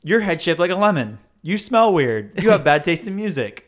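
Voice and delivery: playfully rude, punched delivery; mock blunt insults.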